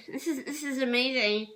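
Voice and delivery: ordinary talk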